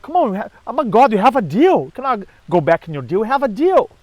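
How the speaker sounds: hammed-up indignant pleading. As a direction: insist on the deal like a spoiled god. Apollo pleads after rejection.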